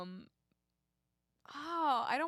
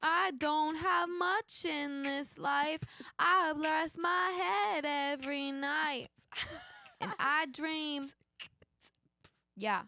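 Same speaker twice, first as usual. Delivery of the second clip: put-on sung in a New York accent. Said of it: "do a song in a New York accent".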